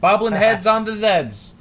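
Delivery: loud, slow and gleeful; delighted repeat. Real, not acted.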